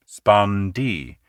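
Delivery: slow, both halves held long; "spondee" both syllables long and stressed. Shown as a demonstration. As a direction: drag out both syllables evenly. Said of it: "two long stress sounds together".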